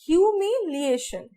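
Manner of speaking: ह्यूमिलिएशन spoken slowly, syllable by syllable; slow dictation of the word; clear pronunciation. Shown as a demonstration. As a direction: sound out ह्यूमिलिएशन carefully. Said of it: "correct spelling है वो है".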